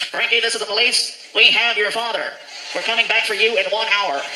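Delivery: official police loudspeaker announcement; stern, measured police announcement; police over microphone. Acted. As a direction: announce it like a cop on a car microphone. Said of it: "he hands me the microphone".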